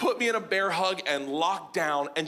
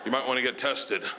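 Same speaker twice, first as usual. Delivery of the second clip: subdued producer; 6 semitones lower than usual. Acted. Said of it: "he looked at me, he's like".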